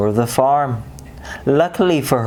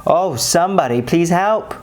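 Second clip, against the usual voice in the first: frightened plea; 6 semitones higher than usual. A narrator's reading. Mouse trapped by cat.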